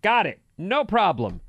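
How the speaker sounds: high, loud breezy reassurance; lightly voiced mom, chirpy.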